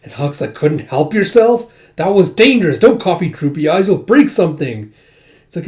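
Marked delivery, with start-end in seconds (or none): 0.5-4.9 scolding. Acted. Huck scolds Yona for jumping.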